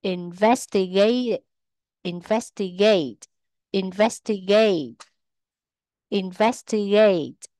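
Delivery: inVEStigate, with VES stressed; third-from-last syllable stress. Shown as a demonstration. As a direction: stress the second syllable of investigate, repeated carefully. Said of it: "rơi vào âm tiết thứ ba từ dưới lên".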